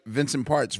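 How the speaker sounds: "Parts" said in place of Price; mispronounced name. Real, not acted. Host explaining trivia about a song, mispronounced name. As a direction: slip "Vincent Parts'" out for Vincent Price's. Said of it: "He said Vincent Parts".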